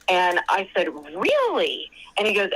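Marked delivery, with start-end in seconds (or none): 1.2-1.9 surprised question. Retold or imitated. Caller retells her shocked reply.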